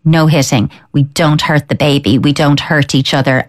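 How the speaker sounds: calm, steady no-nonsense parent voice; gentle yet firm. Shown as a demonstration. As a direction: kind but leave no room for argument. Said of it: "in a gentle yet firm, but firm voice".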